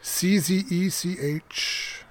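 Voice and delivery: slow deliberate spelling. Pretend. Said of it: "Not that check".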